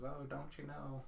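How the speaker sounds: put-on light, soft Minnesotan accent. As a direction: do a gentle Minnesotan lilt. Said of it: "slight vibrato in accent. ... Minnesotans".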